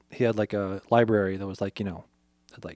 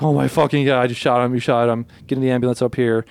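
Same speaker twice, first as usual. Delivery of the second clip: shocked yelling; 6 dB louder than usual. Retold or imitated. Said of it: "the woman's like".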